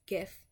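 "gif" said with a hard G as in gift. Shown as a demonstration. Reading the word list, saying "gif" with a hard G. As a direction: start "gif" with a hard G sound. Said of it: "hard G".

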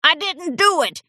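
put-on old voice coughing awake; sleepy cough. A narrator's reading. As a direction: cough it out half asleep. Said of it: "he coughed".

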